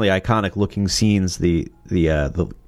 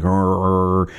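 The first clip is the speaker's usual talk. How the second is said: growled theme imitation. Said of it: "it was like".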